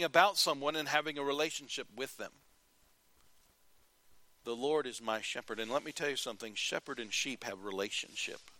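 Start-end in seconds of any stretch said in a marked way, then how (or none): 4.4-5.6 quiet sincere. Real, not acted. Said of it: "I really mean that".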